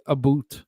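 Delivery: "boot" with a long oo, for about; "a boot", imitating the Canadian vowel. Shown as a demonstration. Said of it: "he'll say".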